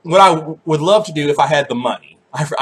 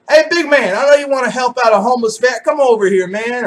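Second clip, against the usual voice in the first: higher, louder panhandler voice, pushing a little fast; imitating a homeless vet; 7 semitones higher, 3 dB louder than usual. Homeless vet working a passerby, imitated higher and louder. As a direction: hustle the big man for change. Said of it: "every single one of them calls me big man".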